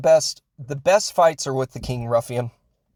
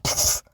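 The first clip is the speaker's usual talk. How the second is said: dismissive pfft. Retold or imitated. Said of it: "He does that".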